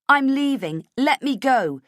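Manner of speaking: loud, high, urgent; desperate demand. Acted. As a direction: force your way past him. Heroine struggling to escape.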